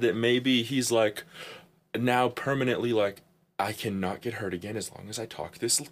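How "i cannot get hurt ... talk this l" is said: low, soft mock mumble; hushed, lowered imitation; imitated quiet talk. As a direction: keep it down as if afraid to be heard. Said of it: "quietly all the time".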